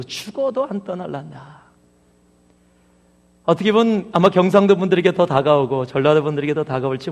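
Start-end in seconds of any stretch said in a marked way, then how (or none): 0.0-1.6 soft imitated Gyeongsang accent; Gyeongsang dialect. Preacher restating the psalm's last verse, in Gyeongsang dialect. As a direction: say it quietly in a put-on Gyeongsang dialect. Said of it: "그 말을 경상도식으로".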